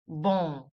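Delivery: Bom as a nasal vowel with the lips left open. Shown as a demonstration. Teacher modelling a nasal Bom. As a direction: say Bom through the nose without closing the lips. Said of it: "Very nasal once again".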